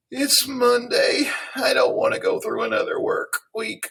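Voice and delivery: very high-pitched voice, sadness laid bare. Explaining the word expressive, the speaker demonstrates an expressive sad voice. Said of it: "If I was to be expressive in being sad".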